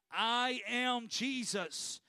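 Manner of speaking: slow, lightly voiced declaration from God; solemn divine answer. The Lord answers Paul from heaven, slow solemn declaration. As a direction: draw out each word as a solemn reveal.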